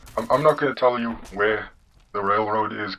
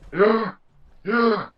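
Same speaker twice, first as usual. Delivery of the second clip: put-on high old-man caricature; John Henry; 10 semitones higher than usual. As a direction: recite the dogma in an old-man falsetto. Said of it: "you have the generic old man voice".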